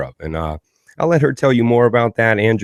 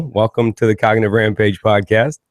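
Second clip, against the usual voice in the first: slightly raised radio-host welcome; radio guy. Real, not acted. Host welcomes guest to his podcast, radio-guy voice. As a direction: welcome listeners like a radio announcer. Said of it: "I sounded like one of those damn radio".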